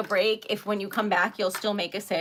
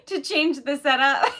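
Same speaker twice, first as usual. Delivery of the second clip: laughing through the words; 3 semitones higher, 4 dB louder than usual. Real, not acted. Laughing through jet lag remark.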